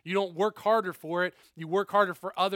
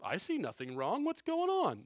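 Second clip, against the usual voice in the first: clueless mock question; 2 semitones higher, 4 dB quieter than usual. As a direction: play dumb, baffled and hammed-up. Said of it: "Jesus isn't asking this in a way of like".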